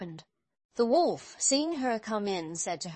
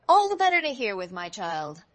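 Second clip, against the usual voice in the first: wolf as grandmother; 6 dB louder than usual. A narrator's reading. Disguised wolf answers girl.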